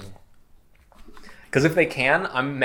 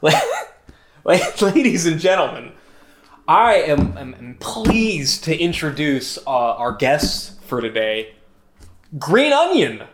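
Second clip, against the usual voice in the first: announcer intro; 2 semitones higher than usual. Pretend. Introducing a vegetable as guest.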